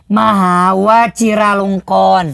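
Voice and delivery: "Waciralongkorn" slowly, opening with W; Thai name pronunciation. Shown as a demonstration. Thai speaker correcting the host's reading, slow demonstration. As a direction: draw out "Waciralongkorn", a W and a ch sound. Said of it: "Enggak, bacanya".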